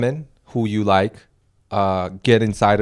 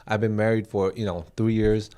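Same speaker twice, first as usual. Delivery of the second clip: soft hypothetical woman; 2 semitones lower, 4 dB quieter than usual. Pretend. Voicing hypothetical abused woman.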